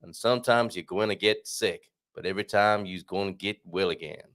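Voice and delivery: hammy attempt at Southern US speech; bad Southern accent. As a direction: read it in a wobbly Southern accent. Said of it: "I can't do this Southern accent".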